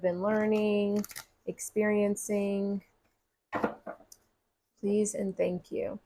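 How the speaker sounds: gentle invocation. Acted. Prayer to spirit before reading.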